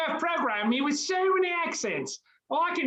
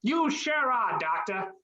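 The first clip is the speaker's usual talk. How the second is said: light Australian twang, low on doctor; a hint of an Aussie, cheerful; Australian accent; 4 semitones lower than usual. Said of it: "you sound like you're from Australia now".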